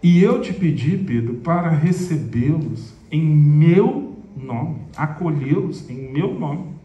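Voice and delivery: slow, patient teacher's correction; gentle, slow rebuke. Retold or imitated. Jesus gently reminding Pedro whom he sent, slow and patient. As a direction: lay it out kindly and slowly.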